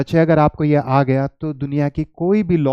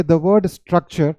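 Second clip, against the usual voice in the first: slow dictation; much slower than usual. Shown as a demonstration. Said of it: "तो आप क्या करोगे".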